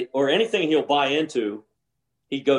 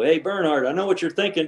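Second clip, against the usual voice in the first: slightly raised, casual needling; retold teasing call; 4 semitones higher than usual. Golfer calling to his playing partner mid-round, teasing. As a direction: call over to a rival, imitating yourself.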